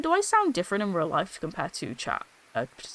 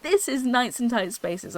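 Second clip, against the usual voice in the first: higher promo-style announcing voice; TikTok voice; 4 semitones higher, 3 dB louder than usual. Shown as a demonstration. Streamer demonstrating the TikTok voice, raised presenter tone. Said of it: "my TikTok voice is completely fucking different".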